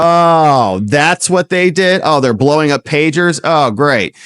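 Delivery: mock surprised official. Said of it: "He's like".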